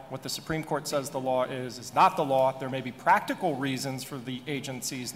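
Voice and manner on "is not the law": "not" pushed out louder, landing hard on the denial; stress on NOT. Real, not acted. Panelist contradicting judicial supremacy, louder stress on "not". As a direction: put your weight on "not". Denying Supreme Court makes law.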